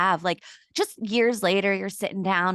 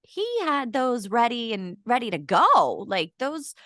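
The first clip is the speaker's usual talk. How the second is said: surprised; 3 semitones higher than usual. Pretend. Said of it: "I probably would have been like".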